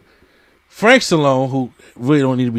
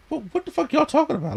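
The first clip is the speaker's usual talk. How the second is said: baffled outburst; 14 semitones higher, 4 dB quieter, faster than usual. Retold or imitated. Retelling his own confused reaction.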